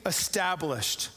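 a king rallying his army; proclaiming king. Retold or imitated. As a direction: call it out to the marching people. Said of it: "he proclaims".

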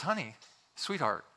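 soft, placating endearments; gentle voice. Acted. Husband turning to his wife, gentle. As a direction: soothe her with soft pet names. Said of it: "says in a gentle voice".

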